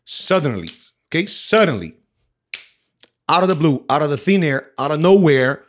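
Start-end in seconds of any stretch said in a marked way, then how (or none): none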